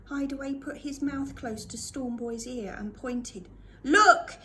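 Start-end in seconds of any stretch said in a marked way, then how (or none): 3.8-4.4 sudden loud yell, higher. A narrator's reading. Hideaway yelling into Stormboy's ear through the storm, loud. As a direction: shout it into the roaring storm. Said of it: "he yelled".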